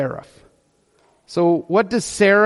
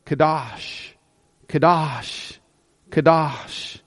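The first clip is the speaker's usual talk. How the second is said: hushed reverent; 4 semitones lower, 4 dB quieter, slower than usual. Shown as a demonstration. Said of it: "what you do see in Scripture".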